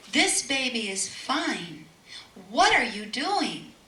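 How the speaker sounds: firm insistence. Retold or imitated. Mother rebuking the panicking family, slow and firm. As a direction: insist calmly but firmly.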